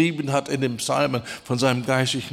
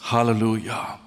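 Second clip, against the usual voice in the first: ordinary delivery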